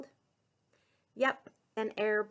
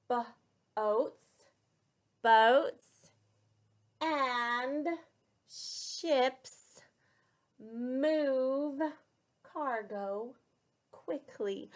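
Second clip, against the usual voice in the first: slow repeat with class; 4 dB louder, much slower than usual. Shown as a demonstration. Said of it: "Let's say it again".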